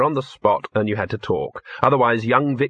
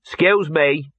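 polite; 5 semitones higher than usual. Acted. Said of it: "he said".

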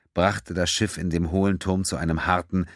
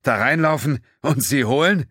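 sarcastic; 8 semitones higher, 4 dB louder than usual. A narrator's reading. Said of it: "fragte Terrell sarkastisch".

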